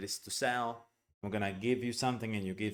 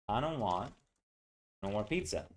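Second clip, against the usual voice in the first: African American English. Shown as a demonstration. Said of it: "part of the African American accent".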